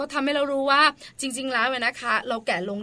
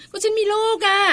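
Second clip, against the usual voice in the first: whiny excuse; 9 semitones higher, 3 dB louder than usual. Retold or imitated. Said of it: "หลายคนบอก".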